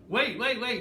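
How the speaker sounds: yelling to stop her leaving; calling out. Retold or imitated. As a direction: shout after the car pulling away. Calling after fleeing woman's car.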